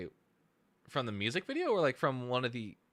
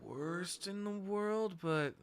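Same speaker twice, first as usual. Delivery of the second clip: high, slow, stretched voice; high drawn out mock singing; mock high sing-song; 9 semitones higher, much slower than usual. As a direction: stretch it out high like a warbled note. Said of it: "still needs to get flex pitched".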